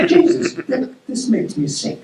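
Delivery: amused at first, then truly repulsed; laughing disgust. A narrator's reading. Fisherman laughing over the oily catch, then disgusted.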